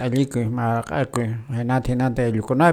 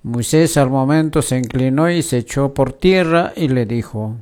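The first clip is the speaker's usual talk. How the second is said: scripture reading. Acted. Host reading Exodus to radio listeners, formal lector reading. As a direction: read the lesson to the congregation.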